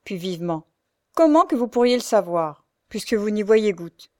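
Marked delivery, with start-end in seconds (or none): 1.1-4.1 quick, louder sneering retort; sharp retort. Acted. The Frochard snaps at Louise, loud and sneering. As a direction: snap back at the blind girl. Frochard quarrels, puis vivement.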